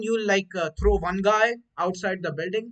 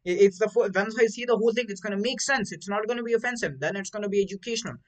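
put-on higher, louder South Indian accent; 5 semitones higher, 3 dB louder than usual. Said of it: "he's like".

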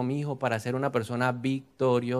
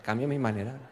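hushed prayer; 3 semitones lower, 7 dB quieter than usual. Shown as a demonstration. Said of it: "Vamos a orar".

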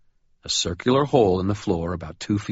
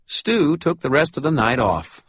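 amiable; 9 semitones higher, 4 dB louder than usual. Acted. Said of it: "I said amiably".

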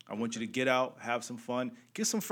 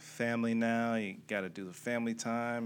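unexcited; 4 dB quieter than usual. Real, not acted. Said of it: "Man, don't sound so excited".

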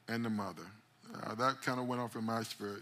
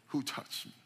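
hushed question; 4 dB quieter than usual. Acted. Jesus asks quietly in crowd.

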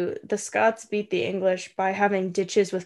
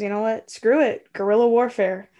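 louder, fed-up rallying cry; defiant declaration; 4 dB louder than usual. Retold or imitated. Robert the Bruce giving up on caution, loud defiant call. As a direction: throw caution away and declare it. Robert deciding on guerrilla war.

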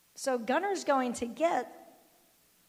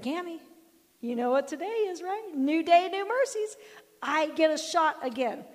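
put-on high and louder, eager boy; excited kid; 5 semitones higher, 7 dB louder than usual. Grandson telling grandma, excited kid voice. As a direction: bounce with joy like a child. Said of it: "all excited".

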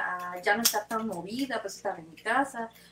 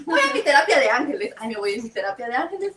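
retold tearful voice; 6 dB louder than usual. Retelling her own tears on the way to therapy, mock-tearful. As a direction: act out crying through the words. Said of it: "estoy llora y llora".

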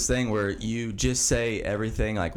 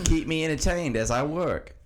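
mock Aussie accent slipping into British, with laughs; laughing while reading the Aussie listener's email in a bad accent; bad Australian accent; 4 semitones higher than usual. Listener email in a slipping mock Australian accent. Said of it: "a really shitty Australian accent".

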